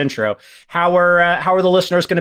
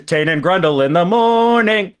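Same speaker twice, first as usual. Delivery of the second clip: morning radio host; 3 semitones higher than usual. Acted. Mock morning radio show.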